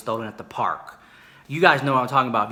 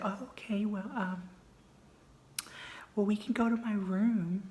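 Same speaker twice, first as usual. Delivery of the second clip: hushed awkward; 8 semitones higher, 10 dB quieter than usual. Retold or imitated.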